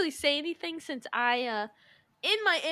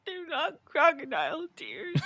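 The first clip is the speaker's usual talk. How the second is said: hammed-up weepy voice; crocodile tears; 4 dB quieter than usual. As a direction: fake tearful denial. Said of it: "No one buys your crocodile tears".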